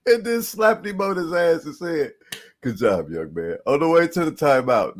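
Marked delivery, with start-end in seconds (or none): 0.0-1.8 hyped. Real, not acted. Excited re-telling. 2.6-3.6 low, calm condescending pat; patronizing praise. Retold or imitated. Repeating the patronizing quote.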